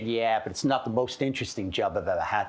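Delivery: imitated American passenger; mock American voice in conversation; American accent. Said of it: "Do you like my American accent?".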